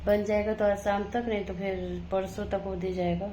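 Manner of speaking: sleepy household at one a.m., softly murmured update; late night hush. Real, not acted.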